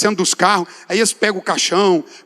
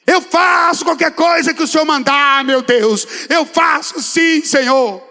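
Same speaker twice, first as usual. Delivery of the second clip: high, drawn-out cry to God; fervent shouted vow; 7 semitones higher, 3 dB louder, much slower than usual. Acted. Preacher re-enacting his vow to God, shouting fervently. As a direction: proclaim it loud and high, stretching the key words.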